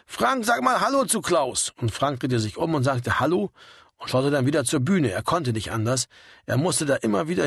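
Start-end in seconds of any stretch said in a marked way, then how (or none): 0.1-1.7 high, drawn-out raised voice; narrator's stretched-out yell; mild holler. A narrator's reading. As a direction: call slowly across the noise. Karl keeps bellowing over the band.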